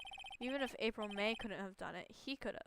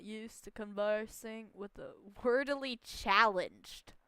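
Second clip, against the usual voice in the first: a hint of a snobbish businessman, louder at the end; lightly voiced haughty tycoon; 5 dB louder than usual. CEO sneering at the lawyer's vocabulary, lightly haughty. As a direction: look down your nose, lightly.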